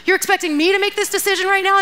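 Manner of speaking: mock overwhelmed, pitch climbing; acted panic. Someone handed a hard decision, acting out mild panic. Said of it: "does fear ever grip you?".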